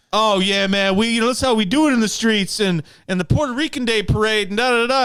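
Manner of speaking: lightly hammed-up streetwise boast; mock street swagger. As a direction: brag like a guy showing off his block. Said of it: "he's like".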